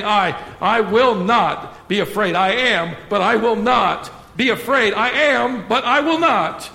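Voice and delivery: grit out each line, leaning on "will"; through clenched teeth. Retold or imitated. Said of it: "picture him clenching his teeth".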